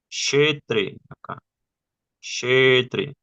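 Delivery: Kshetre said with a sh at the start. Shown as a demonstration. Teacher demonstrating the sh in Kshetre. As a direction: open Kshetre with a sh. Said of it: "se pronuncia como si tuviera una H al lado".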